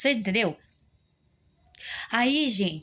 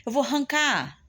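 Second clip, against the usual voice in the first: high, strained pleading to mother; lost and desperate, voice pitched up high; desperate plea; 5 semitones higher than usual. Retold or imitated. Daughter at her limit begging her mother, desperate high plea.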